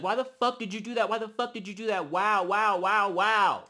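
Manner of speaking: mildly heated retold protest; mad. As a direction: imitate a mad woman demanding answers. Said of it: "Scotty is mad. She's like".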